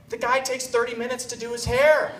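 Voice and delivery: high, indignant grandmother imitation; mock outraged grandmother. Grandmother attacking the fiancé at dinner, mock outrage. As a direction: complain as if pounding fists on the table. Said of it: "she pounds her fists".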